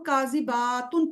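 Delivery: imitated misreading of کاذباتن with long با; کاذباتن said with a long aa after b; stretched baa. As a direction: draw out the با in کاذباتن. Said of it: "با کی زبر کو کھینچ رہے تھے".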